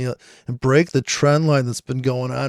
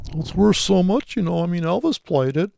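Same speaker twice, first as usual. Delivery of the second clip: mock guitar collector; 5 semitones higher than usual. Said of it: "like buying some shitty guitar".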